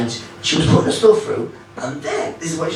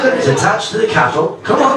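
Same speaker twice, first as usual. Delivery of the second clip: much higher, hammed-up country farmer; 9 semitones higher, 3 dB louder than usual. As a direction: call out to Timothy in a squeaky farmer voice. Farmer character voiced high.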